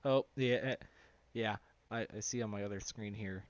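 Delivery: stumbling over words; stammering restart; stuttering. Real, not acted. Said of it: "if I'm stuttering right now".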